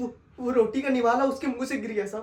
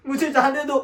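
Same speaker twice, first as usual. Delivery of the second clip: louder pleading cry; desperate plea; 3 semitones higher, 6 dB louder than usual. Acted. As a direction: demand to be let go. Begging release.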